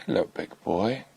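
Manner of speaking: quiet, gentle hello to an elephant; soft tender greeting. Real, not acted. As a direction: softly coo at the big bull. Softly greeting the elephant bull.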